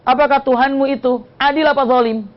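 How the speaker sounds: tearful complaint. Retold or imitated. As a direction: act out a distressed woman's appeal, without sobbing. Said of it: "Sambil nangis dia mengatakan".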